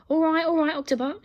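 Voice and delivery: high, loud exasperated call; shouting. A narrator's reading. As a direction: raise the voice to stop it. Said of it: "shouted Alfred".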